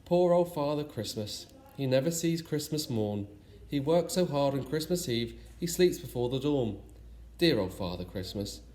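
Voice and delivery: sing-song reading of a rhyme; rhyming verse. A narrator's reading. Narrator closing the story with a fond rhyme, in lilting verse. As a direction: read the verse with a lilting beat.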